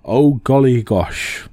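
a light posh English put-on. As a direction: drawl it like a plummy English toff. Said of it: "if you're really posh".

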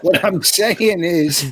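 slow, breathless restart; winded and dragging the words; out of breath. Real, not acted. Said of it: "That's why you're out of breath".

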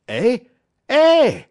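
high, loud, delighted French-Canadian 'Eh?'; a delighted yelp of surprise; gleeful cry. Acted. Francois seeing Buck drive off Sol-leks, gleeful cries. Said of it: "Francois cried, slapping his thighs gleefully".

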